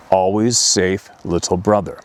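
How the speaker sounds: a hint of a stern guardian, slowed down; stern beast voice. Beast to crying boy, stern reassurance, slow. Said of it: "in a more stern voice".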